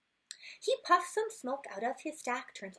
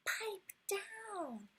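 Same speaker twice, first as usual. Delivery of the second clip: high, slow grumpy neighbor voice; 8 semitones higher, much slower than usual. Acted. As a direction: call out like an annoyed man upstairs. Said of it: "and he's saying".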